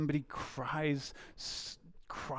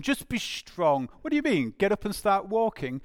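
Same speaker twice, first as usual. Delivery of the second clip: mock incredulous; 3 semitones higher than usual. Mocking advice to injured person.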